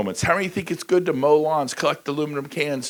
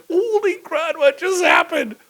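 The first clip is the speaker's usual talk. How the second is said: high, slowed mock disbelief; mock shock; 4 dB louder, slower than usual. Speaker retelling his shock after tripping on stage. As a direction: gasp it out after the fall. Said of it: "I'm like".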